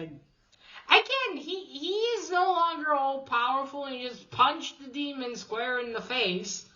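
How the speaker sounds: can't believe how easy that was; incredulous. Real, not acted. Recapping the comic, caught off guard by how easy it was. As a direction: pitch climbing high in disbelief. Recapping a punch that kills a demon.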